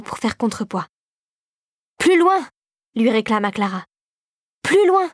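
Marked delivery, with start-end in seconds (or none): 2.0-2.5 higher and louder call across a distance. A narrator's reading. Clara calls across the gap. 4.6-5.1 higher and louder call across a distance. A narrator's reading. Clara calls across the gap.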